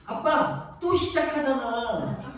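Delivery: imitating a wheedling child. Father voices pleading child.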